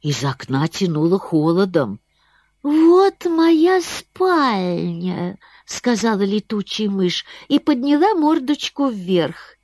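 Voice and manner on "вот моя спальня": high, slow little bat; a sleepy bat speaking sweetly; squeaky bat voice. Acted. Bat shows her bedroom.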